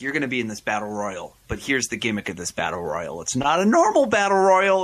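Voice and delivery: promoter voice. Retold or imitated. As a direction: play up the hyped-up promoter. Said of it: "then they're like".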